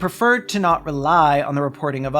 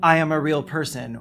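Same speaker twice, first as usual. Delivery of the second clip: mocking quote. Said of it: "Only a really real therapist would say".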